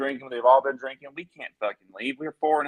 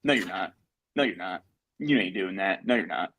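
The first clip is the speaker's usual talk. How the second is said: lower, curt repeated denial; dismissive brush-off; 5 semitones lower than usual. Retold or imitated. Promoter brushing off the performer's hard work, lower and dismissive. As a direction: shut him down flatly each time, in a lower voice. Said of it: "He looks at me in my face and he goes".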